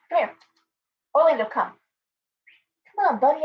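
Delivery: high sweet call to Orlando the bird; calling a pet. Real, not acted.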